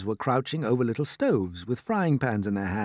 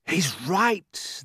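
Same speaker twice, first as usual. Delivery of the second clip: excited cry; 5 semitones higher than usual. Acted. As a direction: cry out in agreement. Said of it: "they cried".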